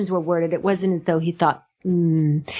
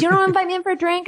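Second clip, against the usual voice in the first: mock pushy cop; 10 semitones higher, much faster than usual. Cop pushing to come in.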